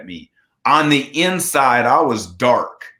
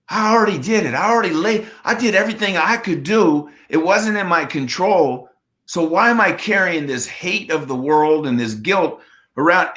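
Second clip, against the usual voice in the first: higher, lifted voice of sudden realization; a man finally seeing it clearly, pitched up; 5 semitones higher than usual. Retold or imitated. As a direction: retell the breakthrough with rising wonder. Retold moment of realization.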